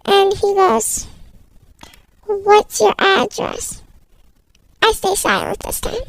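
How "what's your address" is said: slow question, rising at the end; measured questioning. Acted. Stranger wants the child's address, slow and deliberate. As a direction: ask it slowly and deliberately. Kidnapper starts asking the address.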